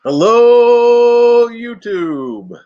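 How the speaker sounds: a loud high mock greeting; Bob impression. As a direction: belt out a big stretched greeting. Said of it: "That's all I can do for Bob".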